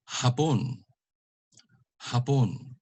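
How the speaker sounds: HAPON with short HA, stressed PON; final-syllable stress. Shown as a demonstration. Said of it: "put the stress on the last syllable".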